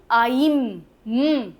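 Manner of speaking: आइम stretched on the "eye", humming the m; long vowel sound. Shown as a demonstration. Teacher sounds out dime's ending, long vowel. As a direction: draw out आइम into a held "mmm". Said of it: "ई है तो pronunciation".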